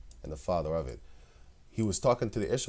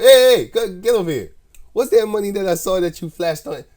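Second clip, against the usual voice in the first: high, much louder hammed-up yell; mock judge shout; 13 semitones higher, 18 dB louder than usual. Judge shouts a rapper back to court, hammed-up yell. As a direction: bark it like a judge calling him back.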